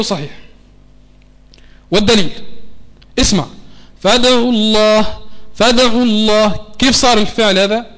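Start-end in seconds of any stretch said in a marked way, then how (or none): 4.0-6.7 فدعوا with the dal voiced as a short a, slowly; wrong fatha on dal. Shown as a demonstration. Teacher shows the ugly mistake of adding a fatha, slow. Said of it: "صارت الدال متحركة بالفتحة".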